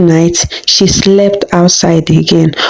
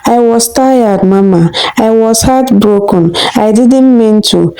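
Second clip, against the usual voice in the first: sobbing plea; 4 semitones higher than usual. Acted. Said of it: "Ginika sobbed louder".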